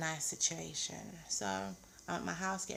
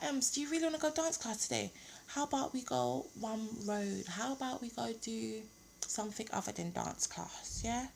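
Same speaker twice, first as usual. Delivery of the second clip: coaxing; 5 semitones higher than usual. Retold or imitated. Coaxing friend to skip class.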